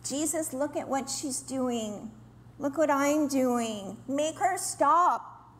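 a slow, whiny tattling plea; whiny toddler. Retold or imitated. Martha tattling to Jesus, in a slow toddler whine. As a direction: tattle to Jesus like a sulky little child. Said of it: "Sounds like a little toddler".

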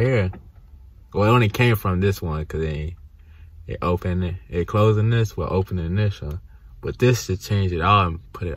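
talking while pointing at teeth; finger at lip. Real, not acted. Seen 3: Finger touches lower lip, pointing at braces gap, throughout.

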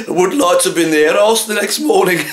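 words through a chuckle; laughing while talking. Real, not acted. Butcher joking to listeners, speaking through laughter. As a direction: let the laugh spill into the line. Joking about puree chicken aftermath.

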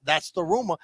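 put-on Doc Holliday Southern accent; Val Kilmer. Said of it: "It's Val Kilmer".

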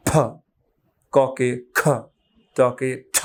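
ফ, খ, ঠ with a small puff of air, no blowing; light aspiration. Shown as a demonstration. Teacher shows aspiration against a thin tissue. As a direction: give ফ, খ, ঠ a gentle burst of air. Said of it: "এমনি একটু প্লোসিভ দিয়ে পড়েছি".

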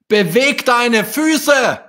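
slow, high, loud call. A narrator's reading. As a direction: call out to her across the pond, slowly. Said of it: "rief ihr Vater".

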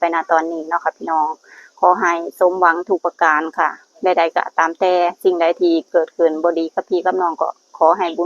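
measured, devotional invocation; understated prayer voice, evenly intoned; blessing prayer. Real, not acted. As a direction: recite a blessing for the followers.

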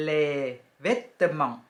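les vêtements as "lay vet-mahn"; les vêtements said as a model; French pronunciation. Shown as a demonstration. Teacher naming the clothes, careful French. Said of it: "อ่านว่า".

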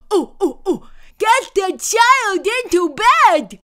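eager gurgling little monster; gurgling swamp creature. A narrator's reading. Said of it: "teetered on his tiptoes and gurgled".

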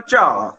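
ਝਾਅ as a ch sound on low tone. Shown as a demonstration. Teacher contrasting three words, low-tone ਝਾਅ. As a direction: say ਝਾਅ like cha with the tone dipped low. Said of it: "ਤੇ ਸੁਰ ਨੀਵੀਂ ਆ".

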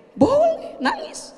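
a preacher telling a grieving mother she may cry; mock gentle reply. Answering the mourner.

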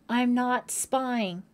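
loud, high, drawn-out denial; indignant shout. A narrator's reading. Holly denying to John that she spied, indignant shout. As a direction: shout it slowly and emphatically. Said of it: "Holly shouted".

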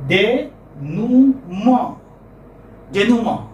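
"Denouement" as day-noo-MAH, no final t; slow careful French "Denouement" ending in an open nasal "mah"; French pronunciation. Shown as a demonstration. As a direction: say "Denouement" the French way, syllables drawn out. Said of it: "what is the pronunciation".

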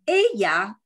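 "Ella" clearly modelled, stressed first syllable; 领读示范. Shown as a demonstration. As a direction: say "Ella" as a teacher for repetition. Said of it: "跟我念，一起念啊". (领读“Ella”，清楚读出第一个音节的重音)

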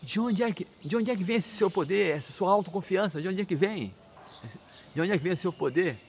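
high-pitched, insistent interrogation; indignant demand. Acted. Father demands the source of his son's power, indignant. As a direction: press the question as an outraged father, pitch up. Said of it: "ele perguntou assim".

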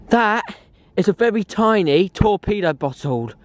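bursting with delight at a find; excited. Real, not acted. Thrilled at tiny torpedo bottle.

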